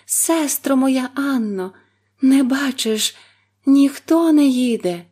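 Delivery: high, loud drawn-out call; despairing plea. A narrator's reading. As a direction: call out losing hope. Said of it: "уже й сама не вірячи".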